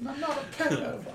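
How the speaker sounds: high mock yell. Echoes the yelled line.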